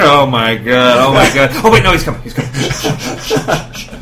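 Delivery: dog hissing shh and scolding, laughing; hushed panicking dog. Retold or imitated. Voicing dogs hushing each other.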